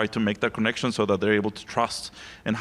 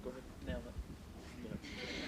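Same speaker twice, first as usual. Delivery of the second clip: whisper; 22 dB quieter, much slower than usual. Real, not acted. Panelist urging next speaker off-mic.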